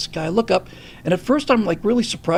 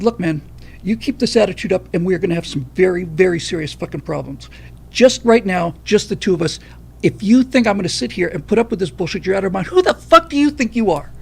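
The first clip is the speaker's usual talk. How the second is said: angry threat. Retold or imitated. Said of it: "I dropped all the F-bombs because I was so fucking pissed off".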